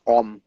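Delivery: light imitation of a singer: "Om." said in place of "I am", the words run together into one sound; the singer's way. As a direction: swallow "I am going" into a single "Om.". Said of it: "He says".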